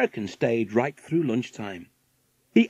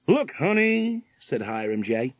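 higher-pitched American millionaire voice; 7 semitones higher, slower than usual. A narrator's reading. Millionaire pointing something out to his wife, American character voice. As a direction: play the rich American husband, high and drawn out.

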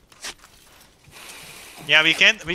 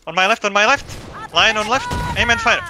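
loud, higher battle order; shouted command; 7 semitones higher, 4 dB louder than usual. Real, not acted. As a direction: bark it out to the line.

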